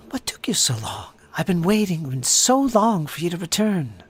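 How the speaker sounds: lightly voiced elf maiden greeting companions. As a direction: play a long-waiting elf with swelling emphasis. Game master plays elf maiden.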